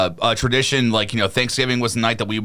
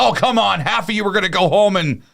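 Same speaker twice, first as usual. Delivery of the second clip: comedian impression; 7 semitones higher than usual. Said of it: "he's like".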